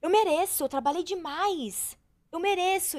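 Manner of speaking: imitating an indulgent inner narrative; self-justifying. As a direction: play an entitled inner voice insisting on a reward. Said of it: "eu tinha muito uma narrativa assim".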